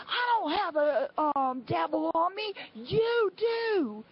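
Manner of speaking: high mock retort, rising at the end; retold yelling. Angry woman arguing all the way to the lobby, high mock yell. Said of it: "she was screaming and yelling all the way".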